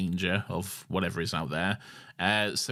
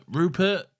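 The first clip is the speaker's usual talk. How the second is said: put-on 1 calling to the boy; 5 semitones higher than usual. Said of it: "And she's like".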